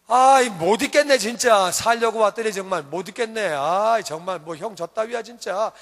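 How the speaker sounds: fed-up outburst, starting loud and easing into a grumble; mock disgusted griping; acted exasperation. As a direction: younger son about to storm out. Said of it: "막 이러고 나가겠죠".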